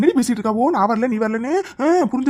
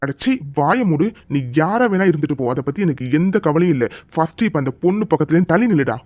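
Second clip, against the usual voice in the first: stern hero; 6 semitones lower than usual. Acted. Hero silences the thug. (கதாநாயகன் கடுமையான கட்டளை)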